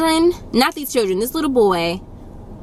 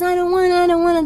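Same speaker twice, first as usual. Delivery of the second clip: put-on higher whining child voice; whiny toddler; 9 semitones higher, 3 dB louder, faster than usual. Toddler whining back at his parents, whiny toddler voice. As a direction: whine it like a two-year-old having a tantrum. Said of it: "he cries or he hits them and says".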